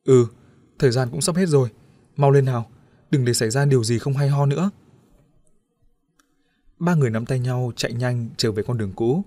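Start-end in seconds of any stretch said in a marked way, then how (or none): 0.0-4.7 urging. Acted. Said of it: "Đĩnh cũng giục".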